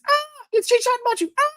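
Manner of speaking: squealing fangirl, way up high. Pretend. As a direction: gush like a screaming fan. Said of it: "in fangirl voice".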